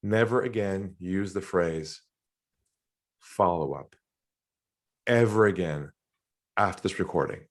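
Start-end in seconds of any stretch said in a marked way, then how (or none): 0.0-3.9 slow, spaced words with a long pause before "follow-up"; a solemn reveal of a banned phrase; slow dramatic build. Shown as a demonstration. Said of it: "Here it is. You ready for this?".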